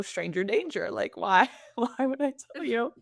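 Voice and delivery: mildly sassy retort; lightly mock-indignant, with a touch of sass. Woman retelling her comeback to a nosy stranger, sassy. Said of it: "I had a bit of a sassy tone".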